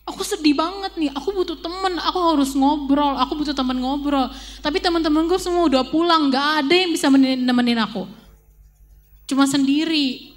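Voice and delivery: high, plaintive complaint to God; lonely girl praying while walking home; sad, upset prayer. Retold or imitated. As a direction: pour out a lonely heart, a touch of whining. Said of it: "K P sedih banget, K P kesel banget".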